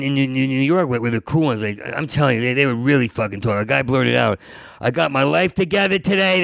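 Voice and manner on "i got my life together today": high-pitched eager blurt; retold loud blurt. A guy sharing at an AA meeting, mock loud. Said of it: "They were loud".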